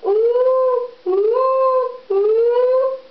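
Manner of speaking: high, loud monkey hoots; monkeys shouting back. A narrator's reading. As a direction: hoot back like cheeky monkeys. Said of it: "they all shouted back at him".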